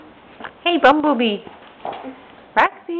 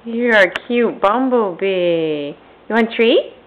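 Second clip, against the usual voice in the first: talking to a dog; 2 semitones lower than usual. Real, not acted. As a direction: coo at a pet. Owner coos at dressed-up dog.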